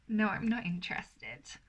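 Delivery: a playful teasing no; coy refusal.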